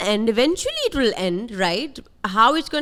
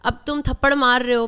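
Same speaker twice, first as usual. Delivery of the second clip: ordinary delivery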